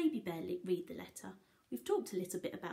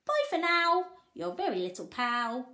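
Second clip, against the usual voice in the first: a lightly voiced cheeky boy, louder; cheeky Jack voice; 4 dB louder than usual. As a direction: read the postcard as cheeky Jack. Jack's postcard voiced.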